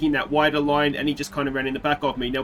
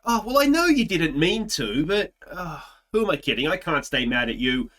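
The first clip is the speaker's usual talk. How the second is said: high mock outrage that softens; from shrill mock fury to forgiving; anger melting away; 9 semitones higher than usual. Shouting at Ricciardo, then forgiving him.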